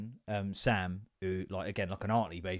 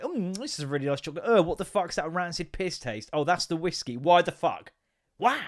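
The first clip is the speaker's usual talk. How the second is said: disgusted chocolate eater; 4 semitones higher than usual. Retold or imitated. Acting Sasha eating liqueur chocolate.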